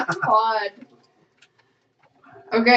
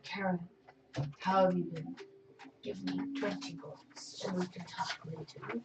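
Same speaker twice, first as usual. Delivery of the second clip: smooth schmoozing; 4 semitones lower, 17 dB quieter than usual. Acted. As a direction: sweet-talk her softly. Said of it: "and I'm like".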